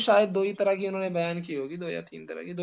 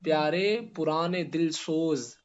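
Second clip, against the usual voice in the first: verse recitation; slower than usual. Shown as a demonstration. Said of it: "اعلیٰ حضرت کا وہ شعر ہے نا".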